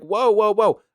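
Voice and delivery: mock disbelief at heaven's rules; rising incredulous rant. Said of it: "I'm sitting here like".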